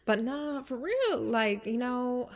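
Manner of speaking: high, loud emphatic rant; excited. Real, not acted. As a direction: get worked up.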